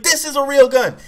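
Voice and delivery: high, loud, furious imitation; mad cop yelling. Cop waving his gun at the boy, angry shouting. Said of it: "the cop was so mad".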